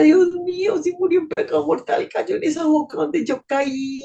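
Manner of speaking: a mild sob in the voice; anguished plea. Retold or imitated. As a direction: voice catching, pleading to God. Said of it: "Yo decía". (súplica angustiada)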